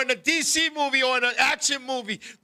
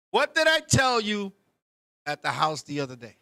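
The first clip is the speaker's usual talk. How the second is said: angry mom demand; 4 semitones lower than usual. Retold or imitated. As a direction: bark the question at the kid. Mother scolding him, repeated.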